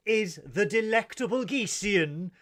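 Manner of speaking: high, loud, slow showman build-up; showman introduction. Acted. Host introducing his co-host as a star, high and loud. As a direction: announce her like a star guest.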